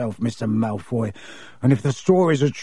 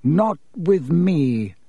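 haughty; 3 semitones higher, much slower than usual. Acted. Malfoy voiced by narrator.

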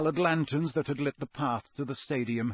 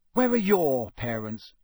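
slow, louder angry question; Harry angrily challenging Malfoy; rising temper; 4 dB louder than usual. Acted. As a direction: press him with mounting anger. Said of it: "his temper rising".

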